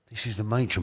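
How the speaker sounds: a lightly hushed matron's remark; said quietly. Retold or imitated. Matron quietly telling the son, lightly hushed. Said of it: "but she said it to me quietly".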